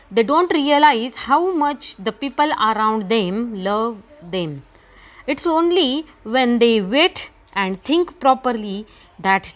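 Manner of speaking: slow, measured textbook reading; reading aloud to class. Real, not acted. Teacher starting the lesson for students, slow reading aloud. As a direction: read in careful phrases with deliberate pauses.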